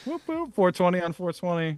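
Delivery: high, whooping celebration; excited cheer. Real, not acted. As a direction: cheer it out like a party. Celebrating the 420 episode.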